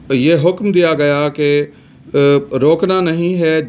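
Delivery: normal talking voice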